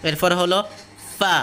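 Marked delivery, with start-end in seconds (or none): 1.2-1.4 ফা made from the lips; a steady, careful ফা; sound from lips. Shown as a demonstration. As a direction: form the f of ফা at the lips. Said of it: "ঠোঁট থেকে বের হয়".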